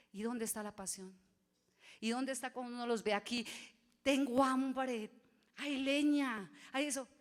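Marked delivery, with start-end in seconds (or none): 4.0-7.1 loud, slow, insistent cry for food; demanding shout. Pretend. Preacher voicing a hungry believer, loud and slow. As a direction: call it out slowly and loudly, as if demanding.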